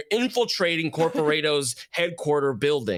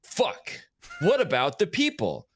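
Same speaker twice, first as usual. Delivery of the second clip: higher, outraged cry; outraged shout; 6 semitones higher than usual. Acted. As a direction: blurt it out in shocked protest. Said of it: "and you're like".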